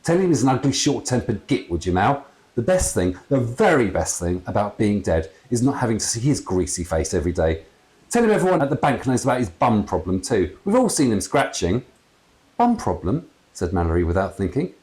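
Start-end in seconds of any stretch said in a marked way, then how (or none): 0.0-11.8 gleeful ghost dad, louder, higher, not whispered; a cheeky dad stirring trouble; mock-whispered insults, full voice; dad's whisper. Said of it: "her dad whispered in her ear". 12.6-13.3 higher, puzzled blurt; startled echo; surprised. Acted. Blurted incredulous question.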